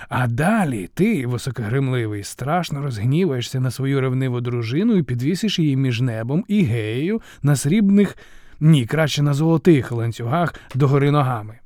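lightly voiced mocker unfolding a plot; scheming jester. Momus tells Zeus how to punish his wife, scheming jester.

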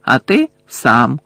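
slow, deliberate gloating; taunting villain. Acted. Villain pointing out to Harry that he is outnumbered, taunting. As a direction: spell it out slowly, as if to a child.

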